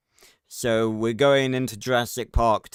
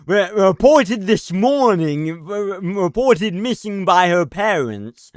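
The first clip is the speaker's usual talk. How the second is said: over-crisp newsreader diction, higher and louder; mock newsreader enunciation; 5 semitones higher, 5 dB louder than usual. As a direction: parody the newsreader, biting every consonant. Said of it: "really enunciating".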